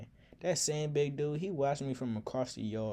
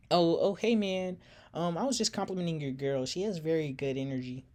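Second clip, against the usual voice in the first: nervous play-off; 5 semitones higher than usual. Retold or imitated. Narrator caught by the huge boyfriend, flustered and fast. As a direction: stammer out a quick nervous excuse.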